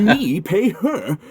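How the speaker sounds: can't believe he has to pay; incredulous laugh. Acted. Shocked at being told to pay.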